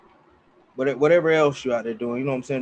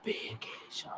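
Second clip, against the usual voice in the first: hammed-up Jamaican reggae accent, louder, fading to a whisper at the end; playful bad Jamaican accent pitching rum as a vacation; mock reggae accent; 4 semitones higher, 5 dB louder than usual. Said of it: "Horrible reggae accent".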